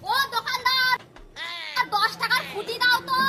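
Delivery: needlessly loud order at the counter; talking too loudly. Acted. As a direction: call out as if hard of hearing. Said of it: "এত জোরে জোরে কথা বলছেন কেন".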